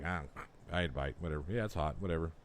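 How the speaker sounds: imitating a guy barely reacting, low-key and offhand; unfazed imitation. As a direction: shrug it off as you mimic him. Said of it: "very little reaction".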